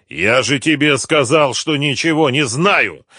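high, loud angry denial; angry outcry. A narrator's reading. Captive insisting he knows nothing, angry outcry. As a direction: cry it out angrily. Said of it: "зло выкрикнул артист".

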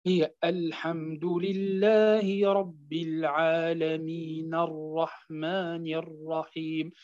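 slow chanted recitation, العالمين carried on into الرحمن الرحيم; recitation without pausing. Shown as a demonstration. Teacher showing the original vowel of the نون to students, slow recitation. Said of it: "وقفنا على النون بالسكون".

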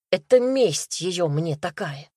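ordinary delivery

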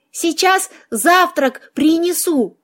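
high-pitched helpful kitty; lightly voiced cat. Cat voiced, offering breakfast.

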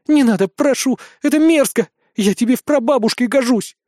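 high, flustered protest; embarrassed pleading. A narrator's reading. Witch begging the boy to stop, embarrassed pleading. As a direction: beg him to stop, mortified. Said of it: "смущённо выдохнула она".

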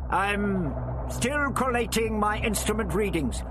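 high-pitched character voice, hesitating first; doctor stalling. A narrator's reading. Doctor putting off his captor, stalling.

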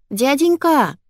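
put-on high squeaky child's cry; squeaky little girl. Mother fooling her son, squeaking like a little girl. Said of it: "запищала я".

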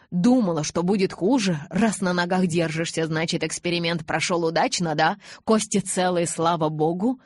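man raging at himself through her; fiery tirade. Acted. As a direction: rail at her with bitter sarcasm. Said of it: "пламенной тирады".

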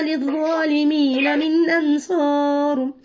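تدخل drawn out slowly in tajweed chant; Quran recitation. Acted. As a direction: chant تدخل النار فقد أخزيته slowly. Verse recitation continues.

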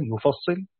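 يفصل said yufassilu, ya with damma and a doubled sad under kasra; reading of Hamza and Kisai. Shown as a demonstration. Teacher shows students the Hamza and Kisai reading: يفصل as yufassilu. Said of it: "بضم الياء وكسر الصاد مشددا".

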